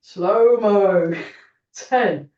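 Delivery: drawn-out slow-motion count. Shown as a demonstration. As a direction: stretch slow-mo out slowly. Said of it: "Two really slow ones".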